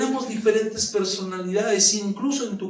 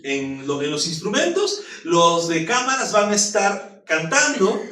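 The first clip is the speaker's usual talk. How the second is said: crazy pastor rant. Retold or imitated. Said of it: "se me agarra la locura".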